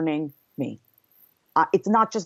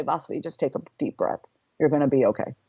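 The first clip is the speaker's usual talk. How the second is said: higher power voice; 4 semitones lower than usual. Retold or imitated. Higher power calming her in the car, lightly soothing. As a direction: say it gently like a calming inner guide. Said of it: "the voice of my higher power".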